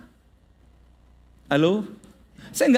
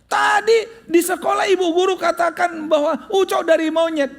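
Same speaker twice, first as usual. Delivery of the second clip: put-on high, loud child's complaint; upset child shouting; 8 semitones higher, 4 dB louder than usual. Boy tells mum the teacher said he came from a monkey, high shouting. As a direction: shout it like an aggrieved kid. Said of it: "boy complaining to his mother".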